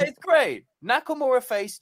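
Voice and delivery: loud, high-pitched burst of approval; excited enthusiasm. Real, not acted. Host praising his favourite wrestler's return, loudly enthusiastic. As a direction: gush about it, voice up and loud.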